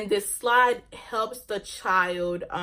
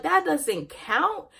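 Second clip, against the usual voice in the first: higher, slow incredulous question; 6 semitones higher, slower than usual. Retold or imitated. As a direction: repeat their claim in disbelief. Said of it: "And I'm just like".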